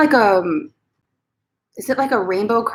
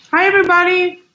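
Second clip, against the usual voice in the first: pet voice; 10 semitones higher, 6 dB louder than usual. Pretend. Voicing Mama greeting viewers.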